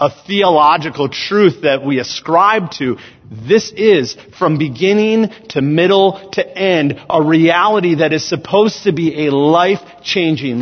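emphatic, projected sermon delivery; preaching. Real, not acted. Preacher telling the church God lives within them, preaching. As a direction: preach it in measured, weighted phrases.

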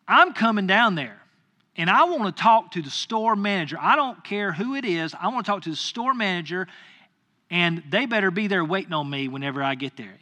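firm, indignant customer complaint; mildly heated, insistent; retold angry demand. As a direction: re-enact laying down an ultimatum. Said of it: "I'm furious".

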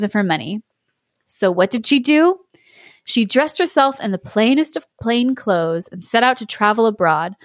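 measured, expressive fairy-tale reading; story narration. Acted. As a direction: spin the romance out, lingering on key phrases. Reads the inner tale aloud.

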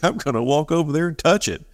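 a hint of a dopey, high tourist voice; clueless tourist. Dumb tourist about to touch lava, lightly voiced. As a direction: play the naive visitor, lightly. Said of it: "the dumb people like us who have no experience with volcanoes".

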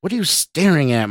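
high, irritated bark. A narrator's reading. Boss challenges Scott at the mirror, barking. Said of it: "Mark barked".

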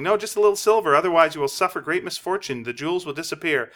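urgent pleading fortune teller. Retold or imitated. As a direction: warn him with spooky insistence.

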